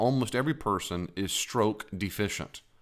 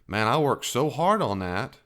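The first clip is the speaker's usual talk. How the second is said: mock bragger; 3 semitones higher, 4 dB louder than usual. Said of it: "people go something like this".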